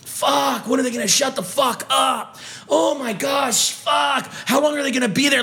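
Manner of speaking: exasperated inner grumbling, lightly voiced; fed-up guy waiting for the machine; annoyed gym-goer's thoughts. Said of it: "all anybody can think of is".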